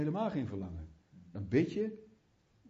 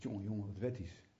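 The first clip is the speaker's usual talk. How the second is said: mocking accuser; 7 semitones lower, 8 dB quieter than usual. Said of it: "dan zegt".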